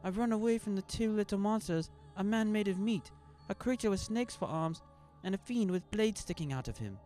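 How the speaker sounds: high, loud desperate plea; terrified little boy begging; frightened boy pleading. A narrator's reading. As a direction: beg for help like a scared child.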